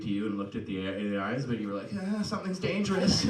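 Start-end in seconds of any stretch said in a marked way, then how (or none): 2.1-3.2 high, uneasy mock alarm; mock-nervous reaction; acted alarm. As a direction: voice a spooked onlooker, pitched up. Acting out a wary listener's reaction.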